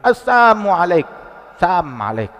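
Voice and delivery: "Assalamu" said as "As-samu", dropping the L of salam; "Sam" in place of "salam", passed off as a greeting; twisted greeting. Retold or imitated. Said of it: "Cuma itu salam diplesetin".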